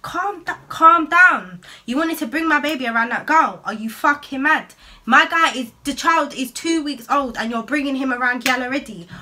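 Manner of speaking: furious retold yell. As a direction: scream at him, mocking his calm down. Heated argument with ex.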